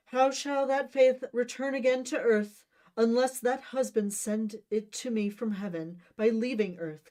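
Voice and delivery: high, loud, hammed-up Shakespearean wailing; dramatic tragic Juliet.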